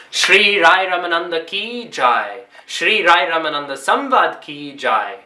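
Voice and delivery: measured devotional call; ki jai invocation. Real, not acted. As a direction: call out each name for the response.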